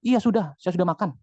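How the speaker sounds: mock grumpy, curt reply; put-on annoyance, falling at the end; imagined irritated reading. Shown as a demonstration. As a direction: imitate how a moody reader hears it. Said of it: "si yang tanya itu lagi bete".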